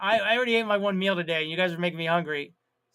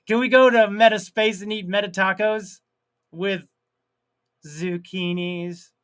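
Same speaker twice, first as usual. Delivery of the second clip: mock Spanish accent; 3 dB louder than usual. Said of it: "with a Spanish accent".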